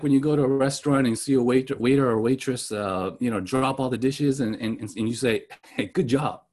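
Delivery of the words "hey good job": dry sarcastic praise, falling flat; deadpan mock compliment. Shown as a demonstration. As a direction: say it like you don't mean it. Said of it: "It's sarcasm".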